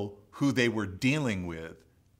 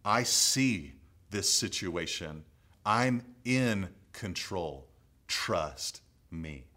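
voice of the Lord; 4 semitones lower, slower than usual. Retold or imitated. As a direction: speak as a calm, tender God comforting Nate. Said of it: "I sensed the voice of the Lord say to me".

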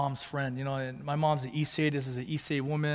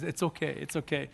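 softly soothing, voice dropped; gentle retold reassurance; 4 dB quieter than usual. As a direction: lightly imitate a woman comforting someone. Voices woman reassuring him.

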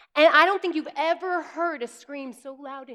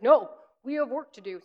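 lightly voiced firm dad; a hint of a stern father; deep firm voice; 3 dB louder than usual. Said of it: "this is my dad voice".

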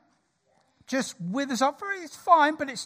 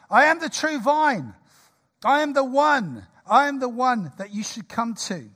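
raised West Country farmer voice; West Country accent; 4 semitones higher, 4 dB louder than usual. Acted. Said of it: "Of my best West Country accent".

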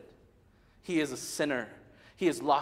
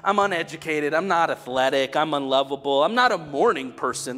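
loud, high preaching voice; a booming sermon build; full-force preaching; 7 semitones higher, 10 dB louder than usual. Acted. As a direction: proclaim it to the whole room.

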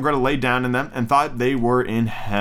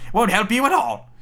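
high, dismissive witch voice; old witch; 9 semitones higher than usual. Acted. Witch rebuffing weeping Gretel, high old-woman voice. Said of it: "said the old woman".

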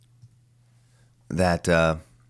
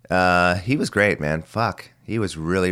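usual speaking voice

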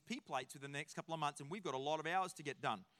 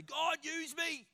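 slow, higher, drawn-out plea; earnest prayer; 8 semitones higher, much slower than usual. Retold or imitated. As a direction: stretch the prayer out slowly. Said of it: "people say".

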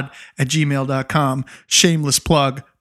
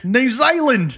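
attempted New Zealand accent, pitched up; 6 semitones higher than usual. Co-host echoing the listener's country, attempted New Zealand accent. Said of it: "how to do this accent".

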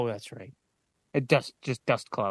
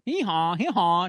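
donkey bray; 5 semitones higher, 3 dB louder than usual. Pretend. Playing a donkey.

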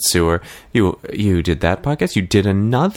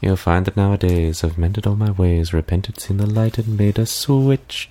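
Ursula number. Acted. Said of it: "then perform the number right away".

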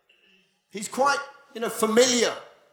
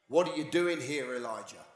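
still small voice; 7 semitones lower, 8 dB quieter than usual. Acted.

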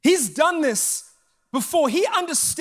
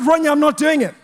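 firm, raised-voice no; loud refusal; 7 dB louder, faster than usual. Retold or imitated. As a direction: shout the refusal at her. Final angry refusal to friend.

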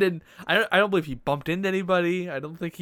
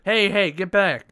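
mock guard shout; 4 semitones higher, 7 dB louder, slower than usual. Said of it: "they're like".

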